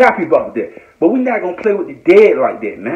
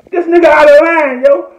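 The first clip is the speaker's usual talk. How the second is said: louder, higher repeat of out of line; shout; 7 semitones higher, 5 dB louder than usual. Real, not acted. Calling out Wack to Big U, loud shout. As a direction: yell it out, fed up.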